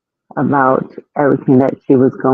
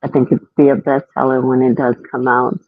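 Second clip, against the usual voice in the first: muffled. Real, not acted. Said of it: "Savannah, you sound like muffled".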